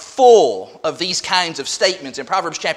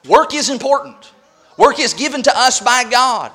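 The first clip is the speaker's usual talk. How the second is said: higher-pitched, punchy emphasis; emphatic; 4 semitones higher, 4 dB louder than usual. Real, not acted. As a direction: drive home each word firmly. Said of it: "I want to emphasize".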